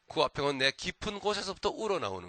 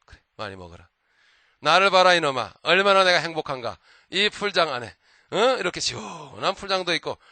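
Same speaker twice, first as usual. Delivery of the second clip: loud, smug gloating over the sparrow; mocking, gloating bear; 6 dB louder than usual. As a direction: lord it over the little bird, a lightly voiced bear. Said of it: "참새를 조롱을 합니다". (참새를 비웃으며 뻐기는 곰)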